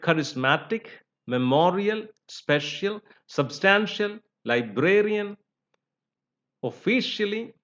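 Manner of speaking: "charismatic, memorial, special, substantial, librarian, officially", each stressed before its suffix. Shown as a demonstration. Teacher giving examples of the rule, stress before suffix. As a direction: list "memorial" and the others with pauses, leaning on the syllable before the ending. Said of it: "syllable before the suffix".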